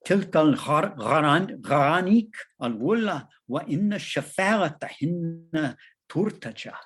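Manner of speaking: lightly voiced angelic Arabic recitation; old angel accent. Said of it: "speaking once more in his old angel accent".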